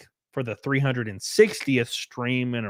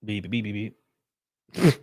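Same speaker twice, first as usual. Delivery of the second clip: idle beeping noises; 3 semitones lower, 3 dB quieter than usual. Real, not acted. Idle noises while searching.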